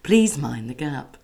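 slow, even tannoy announcement; train announcer voice. Pretend. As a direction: announce stops like a station tannoy. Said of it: "You would smash that job".

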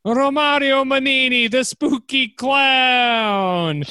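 high, slow spooky intro; spooky announcer. Acted. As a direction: draw it out like a spooky host. Spooky clown name.

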